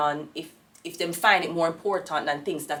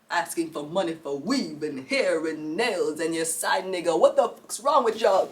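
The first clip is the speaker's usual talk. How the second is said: scolding rant; 2 semitones lower than usual. Real, not acted. Scolding ungrateful girls.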